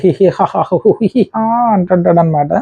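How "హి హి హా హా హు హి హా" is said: slow, taunting hee-hee-haa laughter; mocking laugh sounds. Nabeel taunts Sonia mid-argument, slow mocking laugh. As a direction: cackle to mock and provoke. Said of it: "మధ్య మధ్యలో కొన్ని సౌండ్లు అరుస్తాయి".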